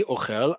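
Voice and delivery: "ochel" stressed on the end, o-KHEL; second-syllable stress. Shown as a demonstration. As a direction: put the weight on the last syllable of "ochel". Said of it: "The second word is a verb".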